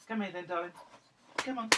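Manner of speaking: coaxing pet talk. Real, not acted. Owner calling sulking dog over, coaxing gently. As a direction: coax a sulky pet over.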